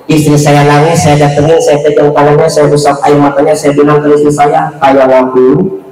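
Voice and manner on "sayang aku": low, slow tender "Sayang aku."; tender husband. Pretend. Husband comforting his crying wife, slow and tender. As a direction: coo it gently to your wife.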